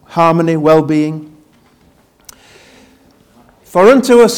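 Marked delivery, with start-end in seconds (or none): 3.6-4.4 reciting scripture. Shown as a demonstration. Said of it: "see if you can fill this in".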